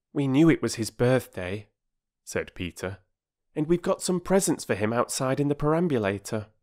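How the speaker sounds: put-on boy announcing presents to Mrs Perks; eager boy. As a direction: tell her about the surprise. Peter's voice.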